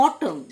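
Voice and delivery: "অটম" ending on M; silent N. Shown as a demonstration. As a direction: say "অটম" with no final N. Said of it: "এন silent". ("অটম", শেষে এন উচ্চারণ না করে)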